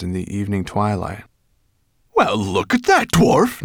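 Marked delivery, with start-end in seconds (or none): 2.1-3.6 high, slow, loud exclamation; dragon in surprise. A narrator's reading. Dragon peering at humans on boat, surprised. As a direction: draw it out at a surprising sight.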